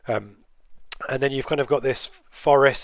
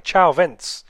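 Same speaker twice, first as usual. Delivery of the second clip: mock Italian goodbye; 4 semitones higher, 5 dB louder than usual. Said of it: "Imagine that in an Italian accent".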